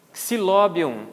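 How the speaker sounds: "Xilóbium" starting with "ks". Shown as a demonstration. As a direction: sound out "Xilóbium" from a KS onset. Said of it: "equivale ao som de K S". ("Xilóbium" com som de KS)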